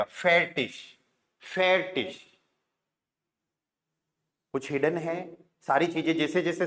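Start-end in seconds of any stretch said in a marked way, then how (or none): 0.0-2.2 फेटिश as fe-tish, stress on the first syllable; teacher saying फेटिश; German pronunciation. Shown as a demonstration. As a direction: model फेटिश as two clear parts. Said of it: "टे का बन जाएगा टी और फिर श लग जाएगा".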